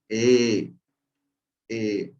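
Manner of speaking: "E" said as an O with the mouth held in an E shape. Shown as a demonstration. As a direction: keep the E mouth and voice an O. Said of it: "Mantengo ese gesto de la boca y automáticamente pronuncio la O".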